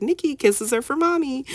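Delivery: high-pitched, re-enacted reminder to a child; re-enacted gentle correction. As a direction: imitate yourself correcting a child, voice lifted high. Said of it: "I was like".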